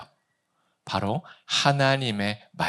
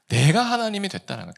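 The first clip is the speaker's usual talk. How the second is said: quicker, higher, run together; emphatic restatement; 6 semitones higher, faster than usual. Shown as a demonstration. Preacher restating the conclusion to congregation, brisk emphasis. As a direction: drive it home in one quick sweep.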